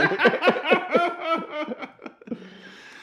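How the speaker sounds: high giggling laugh. Real, not acted. Laughs after singing parody.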